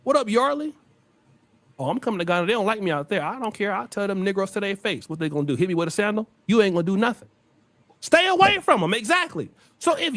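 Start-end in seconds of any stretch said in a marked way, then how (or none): 1.8-7.3 lower, mocking voice of a boastful outsider; a lightly voiced mock of a bragging visitor; mock braggart quote. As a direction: play the cocky visitor, lightly. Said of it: "I'ma see if y'all know it".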